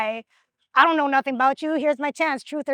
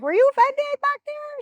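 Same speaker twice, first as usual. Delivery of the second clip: much higher, sugary checking-in voice; mock sweet question; 13 semitones higher, 3 dB louder than usual. Asking homegirl after the game, high mock-sweet voice. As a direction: put on a sweet sing-song to smooth it over. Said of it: "I was like".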